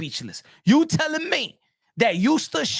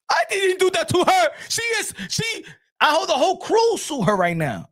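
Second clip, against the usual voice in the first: makeup artist; 6 semitones higher than usual. Retold or imitated.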